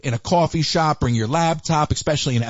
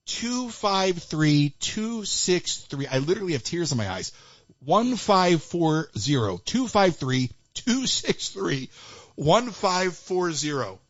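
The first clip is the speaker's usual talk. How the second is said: slow, softer, choked with laughter; fighting laughter to get each digit out; laughing; 3 dB quieter, slower than usual. Real, not acted. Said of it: "I can't even speak right now".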